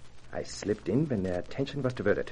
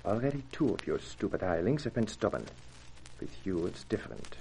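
put-on guttural German accent. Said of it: "spoke in a guttural voice".

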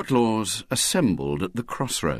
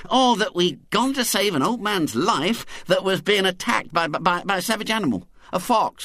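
put-on a boy's rising, breathless excited tale; excited Henry; 7 semitones higher than usual. A narrator's reading. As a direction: pile on the drama, higher and higher. Henry spins a wild tale.

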